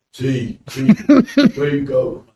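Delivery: loud call down the street, name repeated. Retold or imitated. A big brute on the street hails him with a loud call. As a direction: hail him from across the road.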